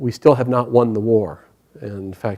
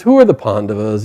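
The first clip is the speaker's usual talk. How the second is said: loud, mildly dismissive question; 6 dB louder than usual. Acted. Monkey answering Bhima's boast, dismissive. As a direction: brush off the grand name. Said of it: "He's very dismissive".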